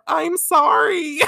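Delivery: high, slow, tearful sorry with laughter; voicing the girl, choking up; crying-laughing I'm sorry; teary apology. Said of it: "So Chibiusa says".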